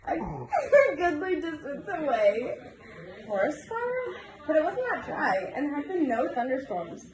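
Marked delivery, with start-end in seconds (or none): 0.1-4.2 giggling. Real, not acted. Reader giggles through a story.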